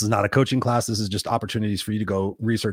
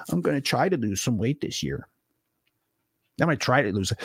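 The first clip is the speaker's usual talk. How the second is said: half-hearted resolution; 4 dB quieter than usual. Acted.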